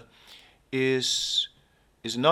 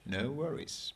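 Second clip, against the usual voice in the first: put-on Australian accent; 4 semitones higher, 6 dB quieter than usual. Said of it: "I'm not supposed to do accents".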